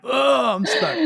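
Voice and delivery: very high, silly mock cry; derp meme impression. Host acting out being stuck, high goofy derp voice. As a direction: squeal it in helpless mock distress. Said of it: "I'm picturing the derp meme".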